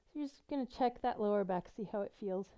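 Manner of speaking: breathing a bit hard; slightly winded while talking. Real, not acted. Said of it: "I'm a little out of breath".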